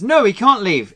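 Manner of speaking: light impression of an editor stepping in; insistent quote. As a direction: block the idea flatly. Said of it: "he says".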